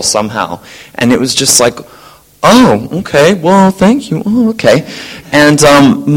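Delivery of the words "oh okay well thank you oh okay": flustered thanks. Retold or imitated. Colleague taken aback by compliment.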